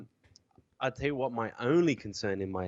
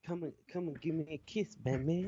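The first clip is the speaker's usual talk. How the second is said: seductive voice; 5 semitones higher, faster than usual. Retold or imitated. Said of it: "that's what she's gonna be like".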